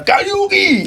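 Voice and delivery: very high, stretched-out cry; high-pitched heckling yell; mock drunken heckler. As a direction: imitate a wasted punter hollering into the mic. Heckler grabs the mic.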